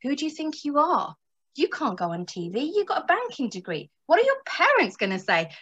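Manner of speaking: a lightly voiced inner critic; voicing the ego. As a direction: needle yourself with doubts. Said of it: "your internal narrative saying".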